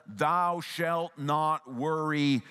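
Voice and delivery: drawn-out stern commandment, understated anger; slow, deliberate mock rebuke; mild angry tone. Shown as a demonstration. Preacher demonstrating a wrong reading of Jesus, mildly angry. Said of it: "angry tone".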